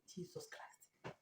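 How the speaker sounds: slow breathy whisper of disbelief; dismayed whisper. Real, not acted. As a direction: whisper it in shock, slowly. Whispered dismay at ruined clothes.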